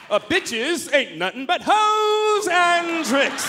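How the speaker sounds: high, loud, very slow, laughing; hammed-up thug line read. Comic acting out his audition line, stiff and overdone. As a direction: read it like a proper man forcing tough. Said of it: "There's a".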